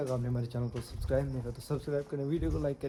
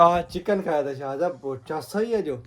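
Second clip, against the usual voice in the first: loud, overdone chatter about chicken; hammed-up loud talk about lunch; loud fake chatter; 3 semitones higher, 5 dB louder than usual. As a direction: boast loudly so the guests feel ignored. Ignoring guests, talking loudly.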